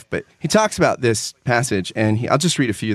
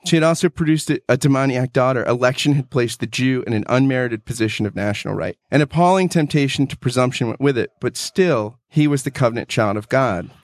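measured, heartfelt book reading; reading a favorite book passage aloud to a co-host; earnest reading aloud. Acted. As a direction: read it like a treasured passage.

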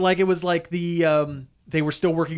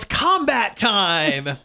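long, stretched-out mock war cry; hammed-up yell, each word held long; imitated battle yell; 3 semitones higher, much slower than usual. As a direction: draw out a cheesy cartoon catchphrase. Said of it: "she yells".

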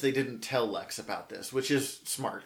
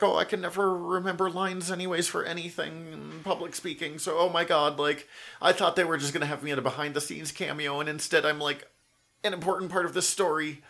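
lightly voiced nervous babble, pitched up; imitating super nervous; 5 semitones higher than usual. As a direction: retell a flustered first-timer in a higher voice. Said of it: "super nervous".

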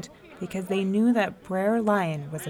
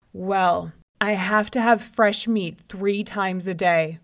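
lion hollering; 4 dB louder than usual. Acted. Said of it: "the lion hollered at him".

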